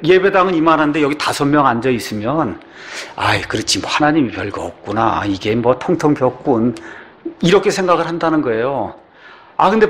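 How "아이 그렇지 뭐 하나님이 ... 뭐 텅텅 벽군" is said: low, offhand dismissive muttering; lower, underwhelmed shrug of a remark; unimpressed visitor. Acted. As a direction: voice a let-down sceptic's passing thought. Acts visitor unimpressed by empty church.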